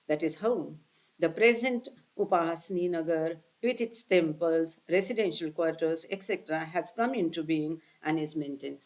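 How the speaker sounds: slow, careful read of a scripture passage; measured recitation of the text; slow reading aloud. Acted. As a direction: read each phrase deliberately to the listeners. Reads the English text slowly.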